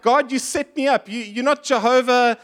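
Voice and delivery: lightly hammed-up accusation; accusing God. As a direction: complain he was set up, half-playful.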